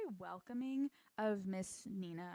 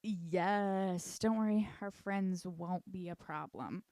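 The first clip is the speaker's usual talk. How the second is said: loud, drawn-out mock reassurance; 7 dB louder, slower than usual. Recapping the suspicious man's reply, mock reassuring. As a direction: start loud, stretch it out slowly.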